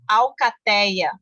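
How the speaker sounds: slow "Alcateia" with an open éi; "Alcateia" drawn out on the open "ei"; open diphthong. Shown as a demonstration. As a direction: stretch the stressed éi in "Alcateia". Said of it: "tem esse ditongo aberto".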